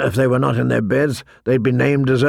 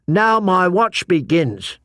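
slow, higher-pitched solemn quote; oath recitation; 5 semitones higher, slower than usual. A narrator's reading. Pip reminding John of his oath, reciting. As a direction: recite the vow deliberately.

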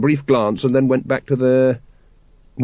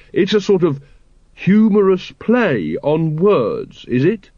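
put-on puzzled young voice; 6 semitones higher, slower than usual. Carrot puzzling over the words.

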